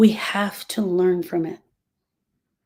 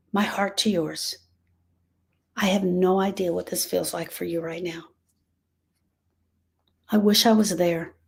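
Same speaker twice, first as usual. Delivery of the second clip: soft, gentle, sincere consolation; tender comfort; 2 semitones lower, 3 dB quieter than usual. Real, not acted. Speaking softly to a grieving listener, tender and sincere. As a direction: hold her gently with the words.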